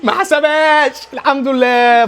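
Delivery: high, relieved cry; a fan's thrilled gasp at the referee's call; excited relief. Real, not acted. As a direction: burst out in real relief. Penalty not given, fan's relief.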